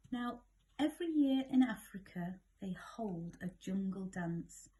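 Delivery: gentle bedtime read-aloud; lilting rhymed storytelling for a child; story narration. A narrator's reading. Parent reading a bedtime story, lilting narration. Reads picture book aloud.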